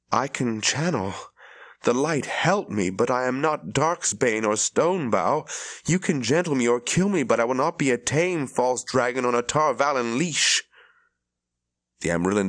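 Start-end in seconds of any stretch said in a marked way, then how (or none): 0.1-10.6 higher, rising defiance; defiant. Acted. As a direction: stand your ground against her. Rand defies the Amyrlin.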